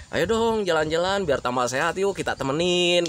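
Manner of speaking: easygoing, friendly invitation; gentle persuasion in a relaxed voice; pleasant coaxing. Shown as a demonstration. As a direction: coax them kindly, without pushing. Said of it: "intonasinya itu berbeda, eh, menyenangkan".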